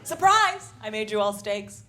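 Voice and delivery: hammed-up party host yelling surprise; mock surprise shout.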